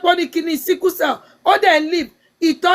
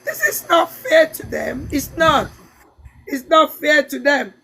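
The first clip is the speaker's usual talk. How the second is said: crying; 2 semitones lower, slower than usual. Real, not acted. Emotional talk about affected women.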